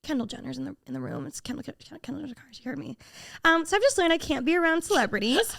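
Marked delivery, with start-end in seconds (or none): 0.0-3.0 very soft, hushed panic; mortified hush. Retold or imitated. Realizing Kendall Jenner heard her, hushed panic. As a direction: whisper it in horror.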